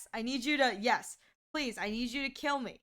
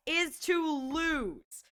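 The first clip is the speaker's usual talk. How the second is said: drawn out; 3 semitones higher, much slower than usual. Real, not acted. Spelling out the goal slowly.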